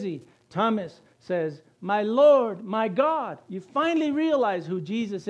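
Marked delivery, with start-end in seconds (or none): 1.8-3.4 raised-voice cry of worship; awed exclamation. Acted. Preacher quotes Thomas recognising Jesus, awed exclamation. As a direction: proclaim it in sudden recognition.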